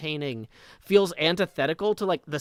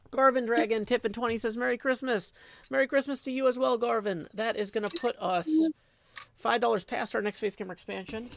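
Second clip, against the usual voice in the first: donation announcement; 7 semitones higher, faster than usual. Real, not acted. Reads out a donation.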